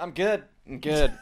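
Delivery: brushing it off, laughing; laughing through pain. Retold or imitated. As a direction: laugh it off after a fall. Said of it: "I was like".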